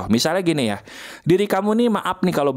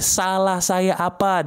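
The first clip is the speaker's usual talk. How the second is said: demo scream line; 3 semitones higher, slower than usual. Shown as a demonstration. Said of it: "Kamu teriak ini".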